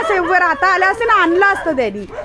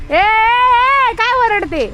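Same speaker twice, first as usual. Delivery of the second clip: high, long drawn-out "hey" to a barking dog; scolding call; 6 semitones higher, much slower than usual. Real, not acted. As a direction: call out high, stretching the first word. (उंच आवाजात लांबवून दटावणे)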